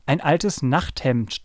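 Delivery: slow, drawn-out honking. Acted. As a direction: trumpet the words slowly. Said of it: "trötete Paul weiter".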